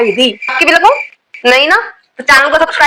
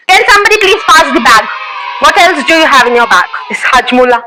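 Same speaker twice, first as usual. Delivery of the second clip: lightly voiced strict schoolteacher, scolding the class; a teacher catching girls with nail paint, scolding; stern teacher scolding. Strict teacher checking student bags.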